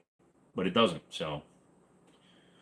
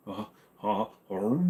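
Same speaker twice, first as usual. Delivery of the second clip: mock stress; 2 semitones lower, 4 dB quieter than usual. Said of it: "I'm gonna show you how much stress I'm under".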